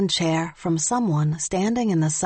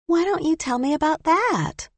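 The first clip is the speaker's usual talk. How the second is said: reporter voice; 11 semitones higher than usual. A narrator's reading. Reporter Allison questioning narrator.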